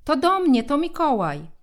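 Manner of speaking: loud high call towards the kitchen; shouting. A narrator's reading. Boy shouting to his mother in the kitchen, loud and high. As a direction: yell it down the stairs. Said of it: "krzycząc w kierunku kuchni".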